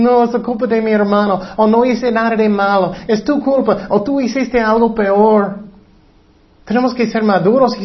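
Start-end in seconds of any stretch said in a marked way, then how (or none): 0.0-5.6 mimicked blame-shifter.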